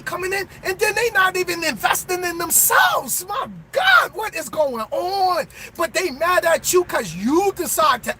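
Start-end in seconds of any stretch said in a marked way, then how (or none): 3.3-5.5 real exasperation, crying out; exasperated. Real, not acted. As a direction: throw up your hands at them. Exasperated outburst.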